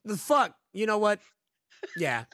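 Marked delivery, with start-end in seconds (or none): 0.1-1.2 mock heckle. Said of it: "They're like".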